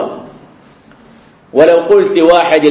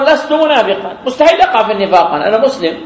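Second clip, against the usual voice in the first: mocking a smug man, quick and with a laugh; hammed-up self-assurance; mock boast. (تقليد ساخر لمغرور)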